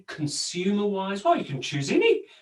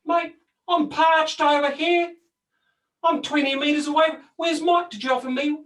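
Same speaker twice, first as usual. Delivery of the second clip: high, louder put-out complaint; a tree protesting it was left out; indignant talking tree; 9 semitones higher, 4 dB louder than usual. Pretend. Tree complains about not getting water, higher and louder. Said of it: "a tree sort of bucks up and says".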